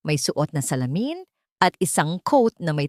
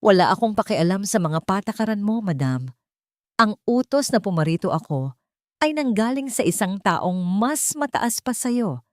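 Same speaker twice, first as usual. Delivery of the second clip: icy threat; 3 semitones higher than usual. Acted. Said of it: "kasing lamig ng yelo".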